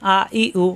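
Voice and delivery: আ, ই, উ each short, undragged; short vowels. Shown as a demonstration. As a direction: say আ, ই, উ promptly without stretching. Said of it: "হরকত আসলে উচ্চারণ তাড়াতাড়ি". (হ্রস্ব স্বরে, না টেনে)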